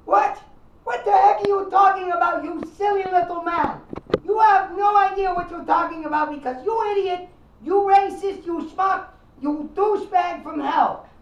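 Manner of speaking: indignant, insulting rant; angry caller. Acted. Italian caller ranting angrily at the radio host. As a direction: tear into the host.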